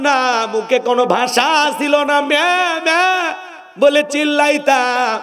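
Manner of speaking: fervent village preacher calling out to the youth; preaching. Acted. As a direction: plead with the young men in rising chant.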